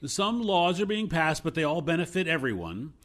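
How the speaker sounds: deadpan fake praise, bigger and brighter; sarcastic. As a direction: sell the joke as if it were true. Mock praise of politics.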